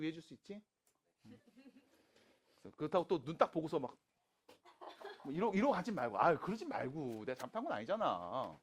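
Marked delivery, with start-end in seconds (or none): none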